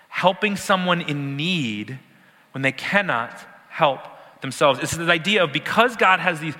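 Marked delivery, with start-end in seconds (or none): 0.1-4.8 each phrase slowed and spaced; slow, deliberate. Shown as a demonstration. Preacher slowing down to drive the definition home. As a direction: spell it out slowly for the class.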